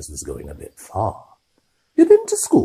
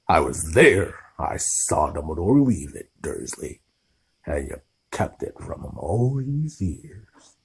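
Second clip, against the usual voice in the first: trembling with rage. Acted. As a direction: let the rage shake each word. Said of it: "his every syllable trembled with rage".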